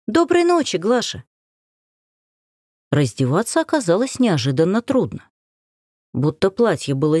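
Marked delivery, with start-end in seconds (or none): 0.1-1.2 put-on high chirping girl's goodnight; chirpy young girl. A narrator's reading. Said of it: "Варенька прощебетала".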